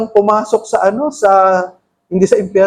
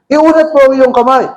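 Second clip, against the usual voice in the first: louder, higher command to stretch the hand; commanding Jesus; 4 semitones higher, 4 dB louder than usual. Acted. Jesus ordering the paralyzed man, loud command. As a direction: call it out with authority. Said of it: "sinabi niya sa lalaki".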